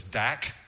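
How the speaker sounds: "dak" as a separate syllable; "dak" said as one clear Hebrew teaching syllable. Shown as a demonstration. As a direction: sound out "dak" for learners. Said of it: "teach this Hebrew word to you".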